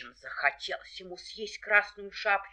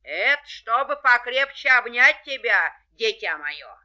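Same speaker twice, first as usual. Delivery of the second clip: wolf in disguise; 4 semitones higher, 9 dB louder than usual. A narrator's reading. Wolf answering as granny.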